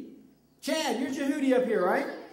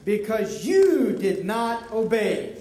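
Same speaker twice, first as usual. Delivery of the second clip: dramatic proclamation; 2 semitones higher than usual. Shown as a demonstration. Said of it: "You're actually gonna read this time".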